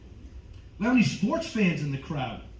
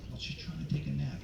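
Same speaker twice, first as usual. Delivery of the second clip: mock-considerate, dropping to a soft voice; talking lower; 10 dB quieter than usual. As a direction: let the volume sink away for the nappers. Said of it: "I'll talk lower".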